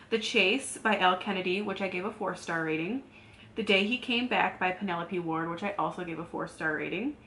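talking while chewing gum; slightly slurred around gum. Real, not acted. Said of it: "Sorry, I have gum in my mouth, so if I'm slurring".

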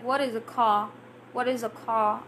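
"car" with no R, as a puzzled listener repeats it; R left silent. Acted. Teacher voices a confused learner asking, "car" without the R. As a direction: leave the R off "car". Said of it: "not pronouncing the R's".

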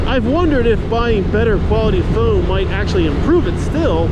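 helmet-cam mic while riding in wind; inside a helmet. Real, not acted. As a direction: talk into a GoPro mic inside an open-face helmet. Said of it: "looks and sounds in action".

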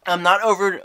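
laughing fit. Real, not acted. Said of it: "I can't even talk".

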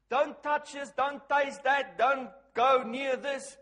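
mock rule-giving. Mimicking list of religious rules.

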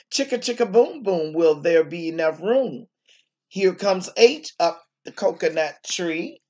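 put-on sing-song the rhyme for the kids; bouncy picture-book chant; rhythmic read-aloud. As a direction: chant the refrain, then carry on the story. Reads picture book to children.

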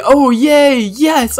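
high, loud mock yay; excited cheer. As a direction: cheer it out like a kid. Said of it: "I'm saying".

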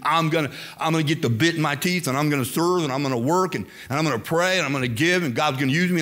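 retold bold vow, lightly driven; bold aggression. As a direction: build a list of determined promises. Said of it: "I like boldness. I like aggression".

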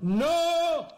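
very high, loud string of nos; repeated screams. Real, not acted. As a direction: scream no over and over. Final big fall.

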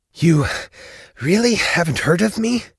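high, loud, breathless questioning; between breaths. A narrator's reading. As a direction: gasp it out high and incredulous. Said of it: "said in between breaths".

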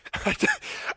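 high stifled laughing noise; imitated helpless laughter. Son cracking up at angry dad, helpless laugh. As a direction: act out laughter escaping while holding it in. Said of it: "I'm already laughing".

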